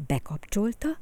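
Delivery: ordinary delivery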